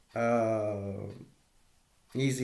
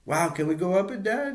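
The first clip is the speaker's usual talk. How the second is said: put-on higher, rising eager child's plea; excited kid; 7 semitones higher than usual. Son asks dad about the arch, excited. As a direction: imitate a kid begging to go up.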